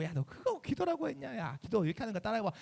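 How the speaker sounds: lightly acted condescending challenge; mock contempt. Senior member scorning a newcomer's prayer, dismissive. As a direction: look down on a beginner's effort. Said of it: "막 서준이 막 무시하고".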